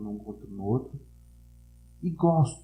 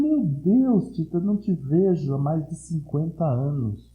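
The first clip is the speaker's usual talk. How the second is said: excited; 5 semitones higher than usual. Retold or imitated. Retelling happy reunion with old neighbor.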